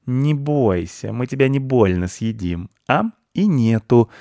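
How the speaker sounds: slow, kindly mock-gentle promise; a cat sweetly pretending not to threaten. Cat gently teases the frightened squirrel, slow and kind. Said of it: "пообещал добрым голосом Рыжопиус".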